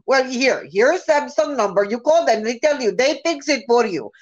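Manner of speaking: mock Indian support-agent accent; imitated call-center accent. Support agent referring a customer to Samsung, mock Indian accent. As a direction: pass the customer along in a put-on Indian accent. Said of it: "it's the accent I hear every time".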